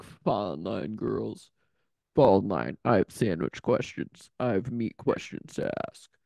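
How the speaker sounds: low, bossy drill sergeant voice; harsh barking commands. Retold or imitated. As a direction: bark orders like a strict boss. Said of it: "cracks the whip".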